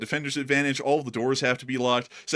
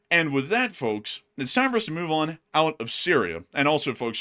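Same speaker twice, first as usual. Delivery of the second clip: breathless, gasping for air; out of breath; 3 semitones higher than usual. Real, not acted. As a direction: talk while winded from running. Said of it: "like I'm gasping for air".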